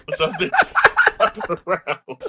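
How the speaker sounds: laughing through the words. Real, not acted. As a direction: chuckle it out. Laughing at the old guy.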